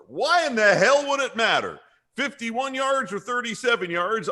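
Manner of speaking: high, indignant parody coach; Freddie Kitchens. Pretend. Coach scorning his kicker's misses, high mock indignation. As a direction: rant as a fed-up coach. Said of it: "that Freddie Kitchens said".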